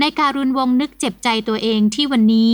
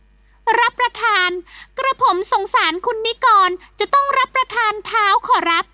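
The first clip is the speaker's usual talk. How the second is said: humble servant voice; 10 semitones higher than usual. Acted. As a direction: plead like a meek old-style servant. Servant Haew pleads to the master.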